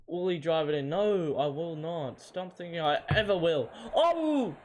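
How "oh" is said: high, loud cry of exasperation; frustrated shout. Real, not acted. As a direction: yell at the game in frustration. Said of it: "Getting frustrated now".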